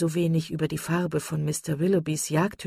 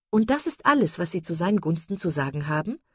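empört. Acted. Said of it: "rief Marian empört".

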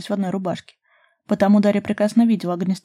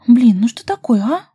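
loud, irritated huff of a complaint; annoyed snort; 5 semitones higher, 9 dB louder than usual. A narrator's reading. Daria fed up with Ruslan covering her, annoyed. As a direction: snap it out, fed up and put upon. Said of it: "фыркнула Ирбис недовольно".

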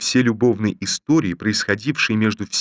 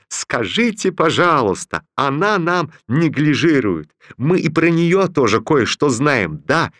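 sarcastic raised tone; mocking; 5 semitones higher than usual. Raisa sneering at a rival before Romashov. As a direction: sneer it slowly. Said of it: "кричала Петерсон".

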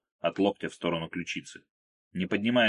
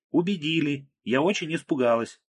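higher, louder teasing yell; mock-scared shout; 7 semitones higher, 3 dB louder than usual. A narrator's reading. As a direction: call out in fake fright. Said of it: "крикнула Марго".

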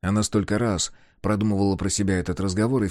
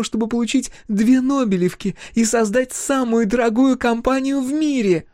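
high, loud, accusing; forty years of grievance spilling out; furious young woman; 5 dB louder than usual. A narrator's reading. Thea's angry accusation.

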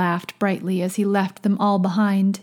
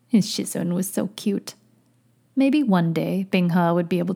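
measured, fuller-voiced audiobook read; story narration. A narrator's reading. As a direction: narrate the tale steadily and clearly. Narrates fiction aloud.

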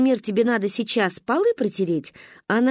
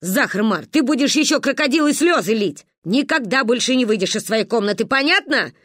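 отчитывая; 2 semitones higher, 3 dB louder than usual. Acted. Ба отчитывает плачущую Маню.

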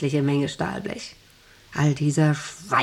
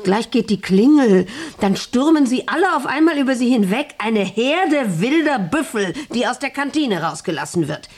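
louder, higher, rising urgency; heated warning; 5 semitones higher, 4 dB louder than usual. Acted. Boss warns the wife of the charging workers, loud and urgent. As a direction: paint the stampede with alarm.

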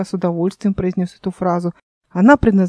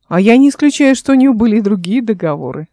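venomous; 4 dB louder than usual. Acted. Kikha mocking Fyula before her brother, venomous. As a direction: slip the dig in with relish. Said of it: "добавил Киха язвительно".

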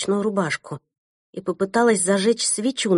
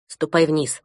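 firm; 3 semitones lower, slower than usual. Acted. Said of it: "твёрдо сказала я".

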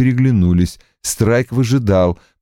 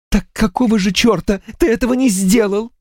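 shouted; 12 semitones higher than usual. A narrator's reading. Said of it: "выкрикнула Анна".

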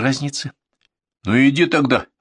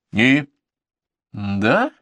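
ordinary delivery

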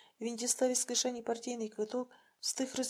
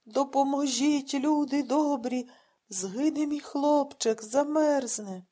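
put-on higher, louder, slow wail of an old man; an old blind man crying out in distress; a distraught old man wailing, slow and loud; lamenting old man; 4 semitones higher, 9 dB louder, much slower than usual. A narrator's reading. Old man begs for help.

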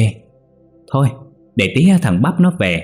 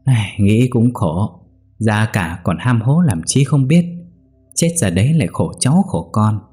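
sly scheming voice; 2 semitones higher than usual. Acted. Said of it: "cất giọng quỷ quyệt".

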